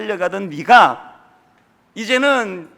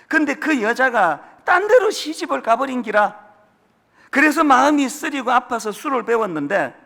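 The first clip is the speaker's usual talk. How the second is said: lightly imitated Gyeongsang tycoon, a bit higher; mild Gyeongsang villain impression; Gyeongsang accent; 5 semitones higher than usual. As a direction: keep the old man's Gyeongsang twang through the story. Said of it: "요런 못된 역은 다 경상도로 시키더라고".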